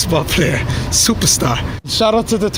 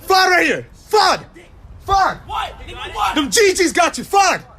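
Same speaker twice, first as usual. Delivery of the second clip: taunting shout; 10 semitones higher, slower than usual. Real, not acted. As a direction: yell it out to mock a rival. Taunting a rival rapper.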